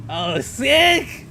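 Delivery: normal talking voice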